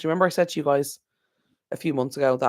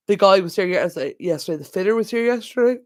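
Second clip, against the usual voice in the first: higher, words pulled by a yawn; 5 semitones higher, 4 dB louder than usual. Real, not acted. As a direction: talk through a yawn. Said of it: "I keep yawning".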